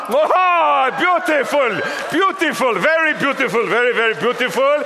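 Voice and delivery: high, gushing praise, rising to a shout; beautiful, beautiful, high and excited; delighted gushing. Real, not acted. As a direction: gush over them like a proud host. Admiring a staged French kiss.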